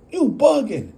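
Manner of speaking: dismissive. Retold or imitated. He replies.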